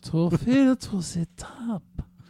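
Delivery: slow, low, sexy sultry reading voice. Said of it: "In a sexier voice".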